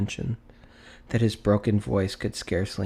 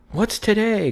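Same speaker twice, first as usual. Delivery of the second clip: high, loud call to the street; 11 semitones higher, 3 dB louder than usual. A narrator's reading. Scrooge calling down from the window to a boy, loud. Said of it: "cried Scrooge".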